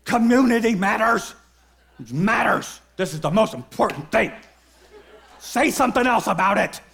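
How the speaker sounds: lightly acted church enthusiast, punching each phrase; a touch of rousing amen-corner zeal; fervent pastor-minded believer. Preacher voicing those with the pastor lens, mock fervour. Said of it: "everyone who's looking through this lens goes".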